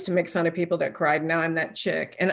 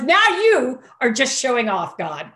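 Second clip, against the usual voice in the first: higher, louder and slow, laughing at God; laughing disbelief; 5 semitones higher, 5 dB louder, slower than usual. Real, not acted. To God after the tech's words, a slow laughing jab.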